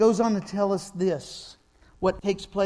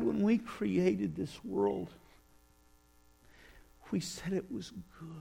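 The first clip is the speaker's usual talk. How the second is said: sorrowful lament; 2 semitones higher, slower than usual. Retold or imitated. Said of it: "And he just kinda goes".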